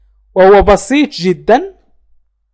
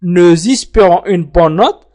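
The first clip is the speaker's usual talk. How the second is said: slow model phrase; slower than usual. Shown as a demonstration. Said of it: "إذا أردنا أن نقول".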